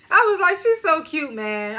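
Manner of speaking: gushing. Real, not acted. Gushing over cute girl.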